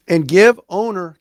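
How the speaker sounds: slow, loud and deliberate; deliberate, grudging buildup; emphatic pause. Real, not acted. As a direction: hold back a reluctant compliment. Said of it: "can't believe I'm about to say this".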